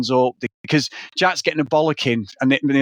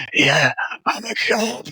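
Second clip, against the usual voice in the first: slow mock New York cop; New York accent; slower than usual. Alien cop revealing himself, mock New York accent. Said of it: "like, a New York accent".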